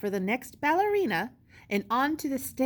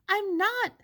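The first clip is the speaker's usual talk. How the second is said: insistent; 11 semitones higher than usual. Acted. Edwina denies joking.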